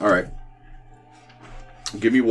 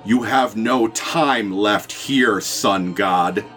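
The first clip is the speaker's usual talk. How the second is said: raspy icy voice; much slower than usual. Acted. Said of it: "in a raspy voice that sounds like the frozen winds of winter".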